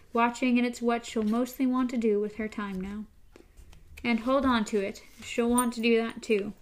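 steady read-aloud story narration. Acted. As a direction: read the book passage through to the listener. Reads a long book passage aloud.

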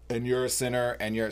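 burp slipping into the words; talking while burping. Real, not acted. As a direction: speak through a small burp. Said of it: "sorry, I'm burping".

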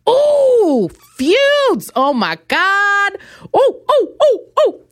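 very high, swooning excitement; mock ecstasy. Host thrilled by diva feuds, mock ecstatic squeals. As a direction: squeal as if overcome with delight.

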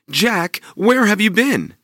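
a hopeful mother asking sweetly; mother's voice. Acted. Mother asking Jack about the cow, high and eager.

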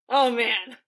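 gushing fangirl. Real, not acted. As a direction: draw out each name with relish. Gushing over favourite writer Shakespeare.

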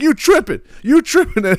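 high, amused mock disbelief; mimicked scoffing. Comedian replays the plane passenger's comeback, high mock scoff. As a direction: imitate a man laughing off a troublemaker. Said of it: "And then he's like".

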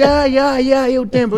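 loud, high mock exclamation; retold excited urging. Friend insisting the moment has come, mock excited urging.

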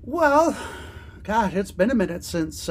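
a hint of dad in the voice; mildly folksy dad musing. Real, not acted. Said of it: "that sounded, like, so dad-like".

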